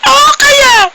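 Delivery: high, loud burst of glee; cracking up, shouting yes; laughing shout. Real, not acted. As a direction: yell it out mid-laugh. Laughing outburst after joke.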